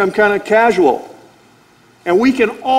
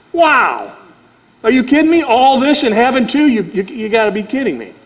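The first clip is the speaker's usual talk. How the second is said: higher, amazed at heaven too; excited disbelief; 5 semitones higher than usual. Real, not acted. Preacher marveling at salvation and heaven, higher and amazed.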